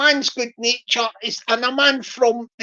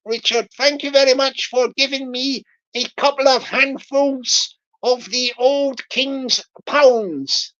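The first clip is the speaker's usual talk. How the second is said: Bristol scammer voice. Retold or imitated. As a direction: play the farmer-scammer milking his mark with a grin. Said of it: "I'll do the Bristol voice".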